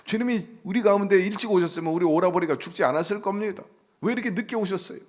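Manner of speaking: mildly plaintive, acted lament; wailing reproach. Sisters blaming the Lord over their brother, acted plaintive reproach. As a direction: complain tearfully, pitch climbing on the question. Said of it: "울부짖으면서".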